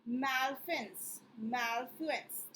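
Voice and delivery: very slow, drawn-out "Malfeasance"; careful pronunciation. Shown as a demonstration. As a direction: stretch "Malfeasance" out, mal-FEE-zuns. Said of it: "इसका pronunciation क्या है बच्चों?". ("Malfeasance" बहुत धीरे, हर अक्षर साफ़)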